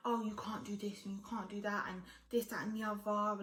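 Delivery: breathy unvoiced whisper of the boyfriend's rules; mocking whisper. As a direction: whisper his nagging back mockingly. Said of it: "my boyfriend would be like".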